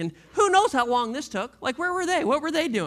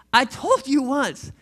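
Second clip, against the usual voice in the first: exasperated exclaiming; 5 semitones higher, 5 dB louder than usual. Acted. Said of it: "the man exclaimed".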